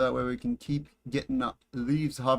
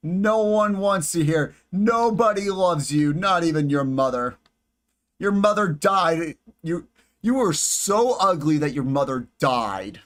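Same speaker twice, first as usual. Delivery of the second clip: mock insulting; 3 semitones higher, 4 dB louder than usual. Insulting the spider, mock cruel.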